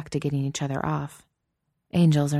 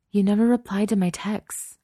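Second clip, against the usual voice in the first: higher-pitched accusation; angry reproach; 6 semitones higher than usual. Acted. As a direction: reproach a friend who ignored you. Hurt friend confronts her in car.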